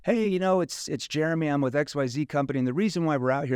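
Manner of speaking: door-to-door pitch. Retold or imitated. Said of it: "knock on the door and be like".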